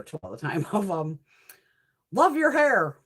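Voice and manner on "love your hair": imitating gushing compliment. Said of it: "somebody always said".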